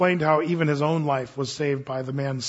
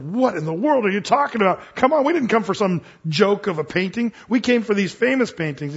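furious crowd; 4 semitones higher, 4 dB louder than usual. Retold or imitated. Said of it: "the people were furious".

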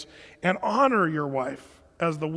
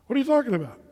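shocked; 6 semitones higher, 3 dB louder, much faster than usual. Retold or imitated. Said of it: "I was shocked".

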